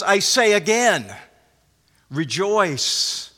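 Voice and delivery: a measured pause before rejoice, then it falls; Paul insisting, unbending; firm repetition. Retold or imitated. Paul answering the doubters, calm firm insistence. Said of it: "Paul says".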